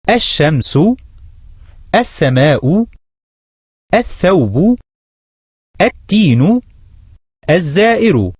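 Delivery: الشمس said aʃ-shams, the L dropped and the ش doubled; each word skipping the L of ال and doubling the next letter, as in الشمس; sun lam silent. Shown as a demonstration. Teacher modelling the sun words for students, L silent, next letter doubled. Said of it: "ثم انطقها".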